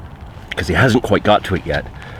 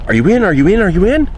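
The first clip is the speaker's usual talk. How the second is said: much higher, louder repeated call, rising each time; excited yelling; 13 semitones higher, 4 dB louder than usual. Retold or imitated. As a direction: shout the question to a friend, building. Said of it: "And I start yelling".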